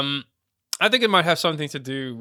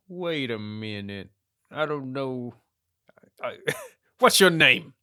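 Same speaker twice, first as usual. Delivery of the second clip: mock flustered woman. Voicing the woman's reaction.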